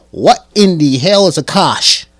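baffled. Retold or imitated. Vlogger to viewers about the word, loud baffled. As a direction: act out pure confusion. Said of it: "I'm like".

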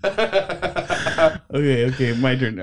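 laughing. Real, not acted. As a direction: still giggling, catching breath. Recovering from laughter.

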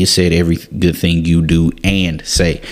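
"good" in "every good thing" given the weight; stress on good. Shown as a demonstration. Preacher driving home the verse's key word "good", with "good" stressed. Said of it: "Emphasis on the word good".

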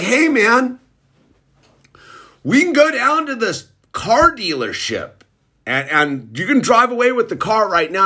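high, eager buddy pitch; quoting an eager sober buddy, pitched high; quoting Dave. Retold or imitated. Sponsor friend pitching dealership.

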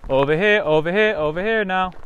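loud, high call; calling from far away. Real, not acted. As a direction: wave someone over with a shout. Calling Molly over from a distance.

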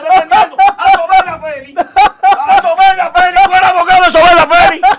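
angry accusation. Real, not acted. Panelist accuses rival of defending a trafficker, angry outburst. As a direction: hurl the charge at your opponent. Heated quarrel, accusing opponent.

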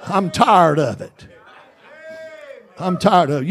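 sharp loud yell on shut up, then firm; hollering at the devil. Retold or imitated. Preacher rebuking the devil on the road, shouting. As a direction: holler it right at him. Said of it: "I'll just holler".

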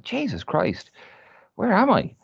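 high, rising panicked disbelief; retold panic.

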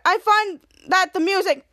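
mildly loud, as if over headphones; too loud for conversation. Acted. Gamer explaining his headphones, slightly too loud. Take before clearing his throat.

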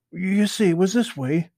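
put-on high, eager young rabbit voice; Peter Rabbit voice. Peter explains to Mister Toad, high and eager. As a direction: pitch it up high like a small rabbit. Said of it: "explained Peter".

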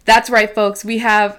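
loud mock radio announcer, about to crack up; radio host impression. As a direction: play up the radio host for listeners. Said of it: "I'll try to sound more like you".

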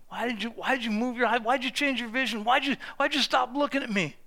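soft, quick, hushed questioning; quiet pleading reproach; gentle quiet rebuke. Retold or imitated. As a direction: ask it tenderly, almost under the breath. Jesus voiced rescuing Peter.

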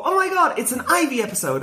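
squealing high with fan excitement; excited squeal. Retold or imitated. Fan spotting her favorite villain, high excited squeal. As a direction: gasp it out like a thrilled kid fan.

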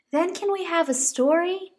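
high, pleading little bunny. Acted. Rosie pleading with Mama to stay outside, high bunny voice. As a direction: beg like a small child bunny. Posy asks.

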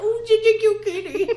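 high, squeaky cooing at a kitten; cooing baby talk. Retold or imitated. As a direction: coo it like talking to a pet. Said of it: "You're like".

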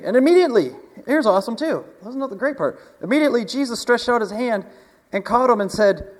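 high, loud, eager preacher; excited preaching. Acted. Pastor rejoicing that Jesus caught Peter, high and loud. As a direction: build the joy of the rescue.

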